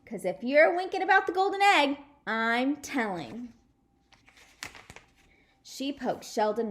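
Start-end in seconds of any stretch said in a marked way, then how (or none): 0.1-3.5 louder, bossy tattletale threat; grouchy threat. Acted. May to Sheldon, a bossy threat. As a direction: warn him like a tattletale. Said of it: "she grouched".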